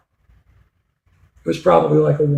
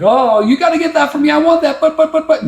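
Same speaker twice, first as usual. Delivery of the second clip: put-on much higher, whining child begging; whiny kid; 11 semitones higher than usual. Boy whining at mom for the toy car, much higher whine. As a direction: beg like a spoiled kid. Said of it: "Was he yelling at Mom like".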